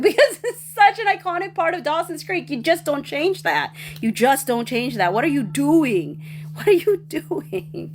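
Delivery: worked-up, exasperated fan rant; really riled up, pleading in disbelief. Real, not acted. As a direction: start high and indignant, stretch out the questions. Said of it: "I'm getting riled up".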